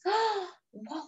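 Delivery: gasped high whoa of wonder; amazed whoa. Real, not acted. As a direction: breathe it out in amazement. Gasp at bookshop on back.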